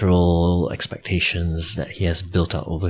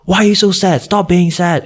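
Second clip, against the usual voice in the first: much higher, louder, imitating a scolding dad; 11 semitones higher, 6 dB louder than usual. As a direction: bark it like the worried father telling him off. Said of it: "he started scolding me".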